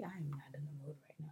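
whispered, flat fed-up line; fed-up whisper to dad. Retold or imitated. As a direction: hiss it under breath. Telling father off.

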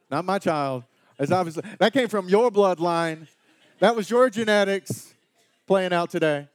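hammed-up blame of the spouse; mock indignant parent. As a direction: parent disowning the kid to the spouse. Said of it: "you're like".

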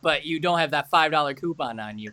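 loud, sarcastic fake apology, laughing through; mock apologetic salesman. Salesman mocking his own apologies, sarcastic and loud. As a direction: ham up a grovelling clerk's sorry.

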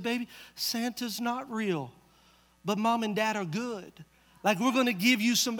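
put-on soft, tender truth to a child; a quiet, careful dad's voice; gentle confession. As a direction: break it softly to the little one.

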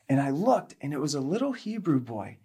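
usual speaking voice

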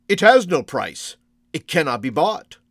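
refuse, kind but firm; firm old shopkeeper. Acted.

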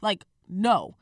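firm, annoyed retort, leaning on the refusal. Retold or imitated. Woman retelling how she refused her drunk date a drink, annoyed. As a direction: retell an exasperated refusal, emphatic opening. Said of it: "I'm, like, annoyed".

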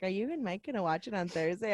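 soft, understated, offhand question; casual asking. Retold or imitated. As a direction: ask it quietly, without any real push. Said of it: "Well, I didn't really encourage".

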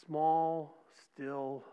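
soft, breathy still small whisper. Shown as a demonstration. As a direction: let it fall to a hush. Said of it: "came a gentle whisper".

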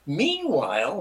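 lightly dramatic storyteller's transition; filmmaker's cutaway. Acted. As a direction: announce a scene change with a playful flourish. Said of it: "like a good filmmaker, and say".

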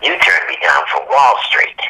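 lightly imitating a dry put-down; dry director. Director recalls the actor's refusal.

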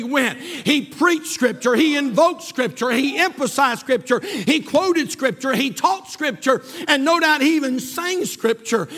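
driving, insistent sermon voice; full-force preaching. Acted. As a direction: hammer out each phrase to the congregation.

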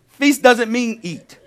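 "doesn't" punched, slow and firm; stress on doesn't. Shown as a demonstration. Preacher correcting the congregation, slow stressed "doesn't". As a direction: lean on "doesn't" to correct them. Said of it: "Feast means to eat".

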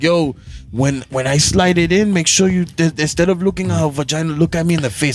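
light put-on Latino accent; lightly voiced Latino-accented porn star; hint of a mock Latino accent. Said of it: "Why do you have an accent".

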